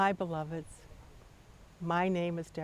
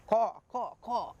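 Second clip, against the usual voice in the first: lightly voiced crow caws, a bit higher; crow cawing; 4 semitones higher than usual. Elder woman scolding the girl, mild crow caw. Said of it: "what sounded to her like".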